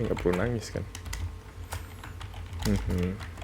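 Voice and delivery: ordinary talk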